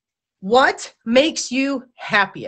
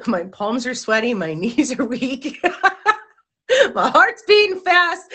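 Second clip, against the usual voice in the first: giggles breaking through, rising high at the end; laughing nervously; 3 semitones higher than usual. Real, not acted. Host describes her nerves to viewers, laughing.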